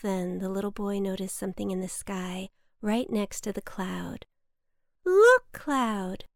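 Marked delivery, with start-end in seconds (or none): 5.0-6.2 high, loud call to look; excited. A narrator's reading. Boy points the cloud to the sky, excited.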